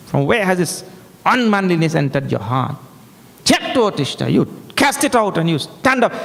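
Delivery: mildly fiery recited admonition; fiery rebuke. Acted. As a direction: chant the verse as a reproach, then urge in English. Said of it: "Fiery there".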